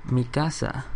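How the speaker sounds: casual Spanish "mi casa", said softly; Spanish pronunciation. Shown as a demonstration. Showing viewers his house in Spanish, light Spanish "mi casa". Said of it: "I can say in Spanish".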